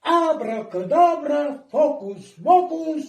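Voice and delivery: «Абракадабра» как волшебное заклинание, торжественно; произнести «Абракадабра» как фокусник-заклинатель; magic incantation. Pretend. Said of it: "Давайте все вместе скажем". (волшебное заклинание)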